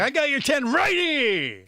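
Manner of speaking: mock Jersey tough guy; slow, high hammy wiseguy. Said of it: "I was like".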